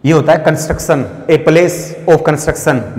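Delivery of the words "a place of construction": very slow, each word apart; slow dictating voice; slow dictation. Shown as a demonstration. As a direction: spell it out slowly for notes. Dictates meaning slowly.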